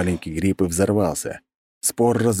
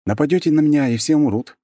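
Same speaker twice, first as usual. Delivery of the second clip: raised, firm threat; threatening; 10 semitones higher, 4 dB louder than usual. A narrator's reading. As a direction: warn them flatly they all die. Hero threatens mercenaries.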